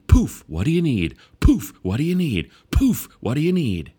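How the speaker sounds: loud, bright magical genie voice; genie in Aladdin. Retold or imitated. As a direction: grant wishes like a showy genie. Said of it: "sounding like the genie in Aladdin".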